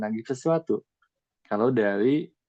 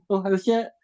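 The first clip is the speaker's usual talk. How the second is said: higher, hesitant mock realization; higher, unsure mock voice; self-doubting realization; 10 semitones higher than usual. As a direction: play someone suddenly doubting themselves.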